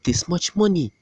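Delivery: high, incredulous voice rising to a squeal on bro; disbelief. Retold or imitated. Looking back at pricey dates, high disbelieving squeal. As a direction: sound stunned at your own spending. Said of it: "I'm like, I'm like".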